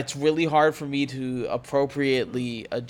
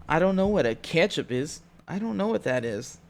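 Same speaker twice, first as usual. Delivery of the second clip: hillbilly voice; 4 semitones higher than usual. Pretend. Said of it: "SpongeBob Hillbilly".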